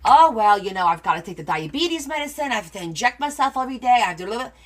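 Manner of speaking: loud 'oh, well' opening, then a list of woes; lightly voiced grandma recounting ailments; a hint of put-upon grandmother; complaining grandmother. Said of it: "my grandmother would tell her".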